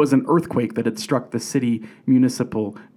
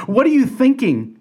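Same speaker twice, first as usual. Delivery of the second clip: much higher, exasperated mock yell at the coach; pitched-up, hammed-up fan protest; mock sports-fan yell; 11 semitones higher, 4 dB louder than usual. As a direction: imitate a fan yelling from the seats. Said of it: "sports fans yelling at the coach".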